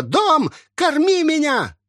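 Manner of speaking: very high, drawn-out shriek; shrieking old woman. Acted. Possessed old woman screaming from the house for food. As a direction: howl it like a possessed hag. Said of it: "кричала старуха".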